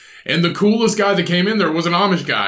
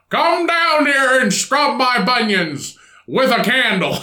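put-on bossy old father, higher and slowed; mock Amish dad; 6 semitones higher, slower than usual. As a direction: play the stern patriarch giving chores. Amish dad ordering son.

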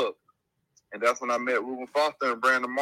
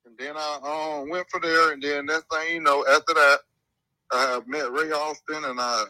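phone speaker. Real, not acted. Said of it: "Now I got you on speaker".

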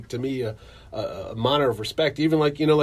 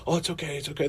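shy mumble; 3 semitones higher, 6 dB quieter, faster than usual. Retold or imitated. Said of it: "I'm mumbling, like, little introvert".

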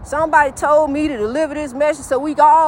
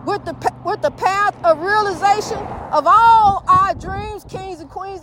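shouting over machinery; 4 semitones higher than usual. Real, not acted. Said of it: "I'm all yelling".

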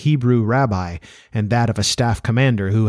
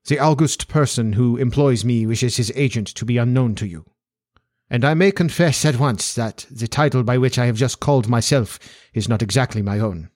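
put-on formal Central European-accented nobleman; accented aristocrat stating his terms; Bohemian Count. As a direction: play a grave, formal foreign Count. Voices the Count as a character.

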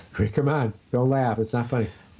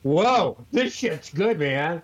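impressed stoner voice; 4 semitones higher, much slower than usual. Retold or imitated. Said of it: "No, I said".

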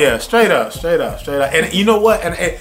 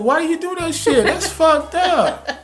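much higher hammed-up cursing, breaking into a laugh; laughing imitation of his own angry rant; mock road rage. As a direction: play up the outrage at the driver. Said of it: "I was like".

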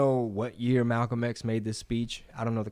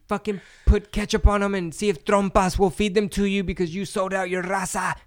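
much higher put-on angry commenter voice; TikTok commenter; 8 semitones higher, 4 dB louder than usual. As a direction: screech it like an online troll. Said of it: "what they told me on TikTok".

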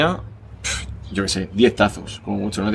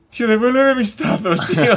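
mock crying plea; 11 semitones higher than usual. Friend crying and begging for his tazos back, mock sobbing whine. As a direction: wail like a kid who lost everything. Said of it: "empieza a llorar".

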